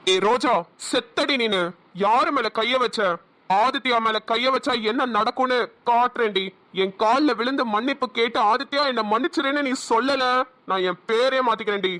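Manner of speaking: a villain swearing he will make her beg; vengeful threat. Acted. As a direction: promise revenge through your teeth. Villain vows revenge, slow.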